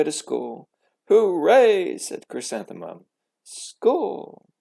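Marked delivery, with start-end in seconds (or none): 1.1-2.0 loud, high cheer of joy; excited cheer. A narrator's reading. Girl cheering as she runs to school, excited. Child cheering on first day. 3.4-4.5 high, bright exclamation; excited cry. A narrator's reading. Girl running to her first school day, thrilled.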